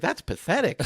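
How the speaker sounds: mock coach scorn. Coach mocking light weights, high mock voice. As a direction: sneer it like the coach. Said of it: "He's like".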